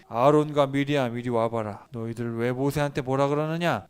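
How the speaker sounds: God summoning the siblings, stern; stern God calling. Acted. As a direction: call them over with authority. God summons Aaron and Miriam.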